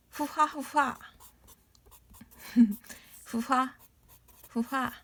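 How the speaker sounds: breathy puffing huhwa laugh; hippo laugh. Shown as a demonstration. Teacher demoing the hippo's laugh, puffing chuckle. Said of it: "This is also laughing sound".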